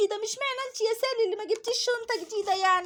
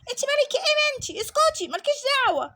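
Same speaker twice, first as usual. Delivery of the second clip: put-on rude bully girl; 2 semitones higher, 3 dB louder than usual. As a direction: snap at her like a spoiled kid.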